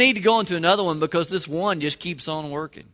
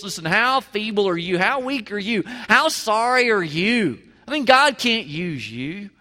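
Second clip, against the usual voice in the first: mocking ridicule; 2 semitones higher than usual. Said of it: "crying out and just ridicule us".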